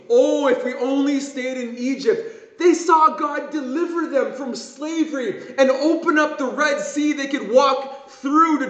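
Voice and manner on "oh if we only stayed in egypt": lightly acted grumbling lament; a touch of mock regretful moaning; mock complaining. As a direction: imitate a crowd of grumblers. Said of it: "Israel murmuring, complaining".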